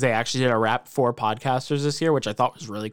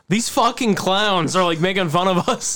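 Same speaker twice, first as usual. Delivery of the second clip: mock-offended Australian listener, higher pitched; imitating Australians; 6 semitones higher than usual. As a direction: put on an indignant Australian accent. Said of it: "all of Australia was like".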